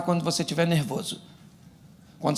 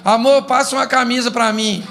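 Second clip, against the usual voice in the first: acted husband calling; 5 semitones higher, 4 dB louder than usual. Acted husband asking his wife.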